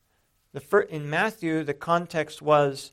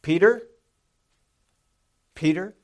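raised, louder call on the name, then firm; urgent; 2 semitones higher, 7 dB louder than usual. Retold or imitated. Jesus responds to Peter's declaration, more urgent. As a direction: press the warning home with urgency. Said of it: "a little more urgency in Jesus' response".

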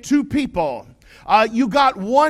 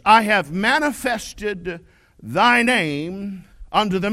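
solemn Bible reading from the pulpit; scripture reading; 3 semitones lower than usual. Acted. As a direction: read it with reverent weight, phrase by phrase. Reads scripture in KJV cadence.

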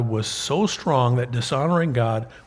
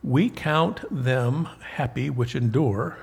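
solemn King James reading; scripture reading. Acted. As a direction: read the verses like a preacher at the pulpit. Reads scripture aloud, preaching.

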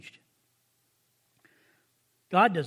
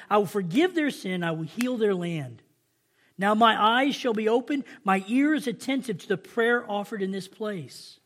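measured, emphatic Bible reading; scripture reading. Acted. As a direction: read God's words out to the congregation. Reads scripture aloud.

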